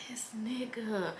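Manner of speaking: slow breathy whisper under her breath; whispered aside. Retold or imitated. She walks past her ex and whispers to herself, slow whisper. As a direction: say it to yourself as you walk past.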